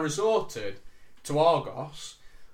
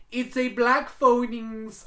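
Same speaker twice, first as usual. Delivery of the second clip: imitated Indian accent; 9 semitones higher, 7 dB louder, much slower than usual. Agent voiced in phone story.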